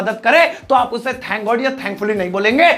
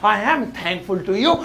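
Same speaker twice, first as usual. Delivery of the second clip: slow, measured example sentence; slow model phrase; 4 dB quieter, much slower than usual. Shown as a demonstration. Teacher giving learners the answer to say, slow and measured. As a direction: take the English slowly, word by word.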